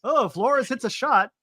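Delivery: teasing, understated play-by-play impression; slow, unexcited grand slam call; underwhelmed mock call. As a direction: imitate a home run call like it's nothing. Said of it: "That's all you did was like nothing".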